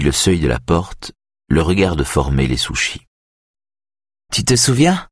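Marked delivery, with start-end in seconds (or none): 4.3-5.1 laughing voice. A narrator's reading. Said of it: "d'une voix rieuse".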